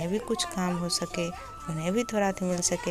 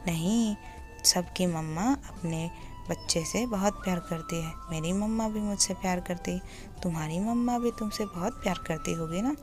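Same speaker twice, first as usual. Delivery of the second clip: 1 soothing; 4 dB quieter than usual. Acted. Savjan comforts crying boy.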